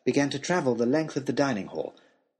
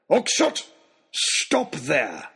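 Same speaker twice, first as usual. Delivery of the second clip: shouting after him; 3 semitones higher, much slower than usual. A narrator's reading. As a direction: yell it across the night square. Lord Daunt keeps shouting after him.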